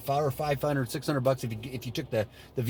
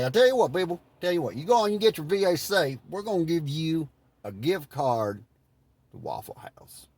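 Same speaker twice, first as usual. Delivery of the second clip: lightly drawled Southern governor impression; 2 semitones higher than usual. Governor pitching people, in a mild Southern drawl. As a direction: drawl it out like a folksy Georgia politician. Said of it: "I say that with a drawl".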